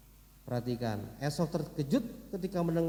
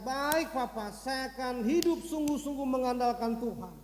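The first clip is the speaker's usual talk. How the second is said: higher-pitched, earnest vow; acted resolve of an obedient son; determined; 5 semitones higher than usual. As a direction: pledge it firmly to father. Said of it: "dia bertekad".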